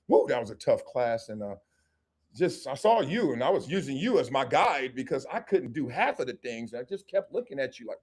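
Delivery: lightly acted man, low and soft; a hint of a shy guy chatting her up; bashful suitor. Voices shy man courting her.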